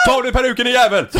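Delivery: high-pitched hammed-up heckle; mock fan scream. Friend pretends to heckle the singer at a concert, screaming. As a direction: yell up at the star like a rowdy fan. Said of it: "titta på henne och skrika".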